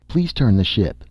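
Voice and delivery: urgent, keen request to turn the ship; excited. Acted. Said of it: "Nasha said excitedly".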